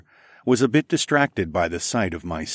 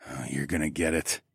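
soft, low mutter to himself; 5 semitones lower, 7 dB quieter than usual. Acted. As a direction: mutter it under the breath. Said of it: "I muttered to myself".

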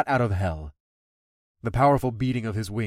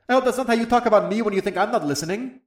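quick, higher teasing dragon voice; 9 semitones higher, faster than usual. Acted. Dragon teasing his rider, quick and playful. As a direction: needle her playfully.

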